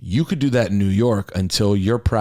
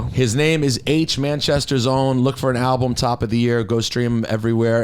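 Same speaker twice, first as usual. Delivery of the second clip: host's outro plug; 3 semitones higher than usual. Acted. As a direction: present the guest to the audience, unhurried. Host delivers the guest sign-off plug.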